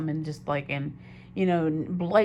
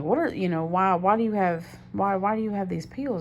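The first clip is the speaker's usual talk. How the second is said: retold confrontation, pitched up; confronting; 4 semitones higher than usual. Girlfriend questioning boyfriend about the pills, confronting. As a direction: demand an explanation in disbelief.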